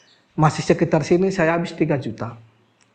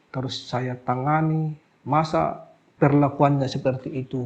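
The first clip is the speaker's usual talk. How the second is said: tearful inner thoughts; 3 semitones lower, slower than usual. Retold or imitated. Healer recalling his thoughts after the patient's rudeness, slow and tearful. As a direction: recall the hurt slowly, half to yourself. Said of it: "Aduh, saya nangis di situ".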